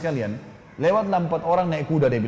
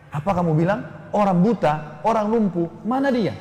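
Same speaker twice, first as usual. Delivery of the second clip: surprised; 5 semitones higher than usual. Retold or imitated. Riders shocked, asking urgently.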